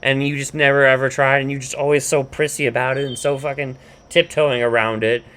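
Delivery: retold exasperated scolding; mild mock tirade. Woman going off on her man, mild mock tirade. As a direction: keep griping at him, half-acted. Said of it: "goes off on him".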